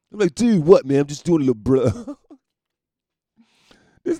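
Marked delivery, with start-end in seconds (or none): 0.3-2.2 mock indignant cry. Cokehead confronted by security.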